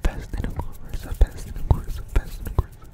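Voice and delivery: rapid punchy whispered triggers; quick, aggressive ASMR whispering; fast aggressive asmr. Shown as a demonstration. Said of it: "fast, fast, and very aggressive".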